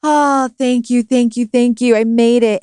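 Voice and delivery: retold relief. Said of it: "and I'm just like".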